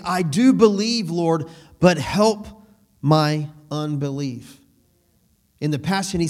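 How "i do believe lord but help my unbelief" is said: crying out. Retold or imitated. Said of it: "he cries out with tears".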